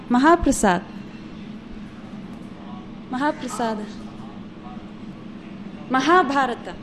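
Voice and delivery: "Mahaprasad, Mahaprasada, Mahabharata" landing on a long HAA; teacher's careful "Mahabharata", weight on the long HAA. Shown as a demonstration. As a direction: model each word with a long second syllable, ma-HAA. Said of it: "It has long A".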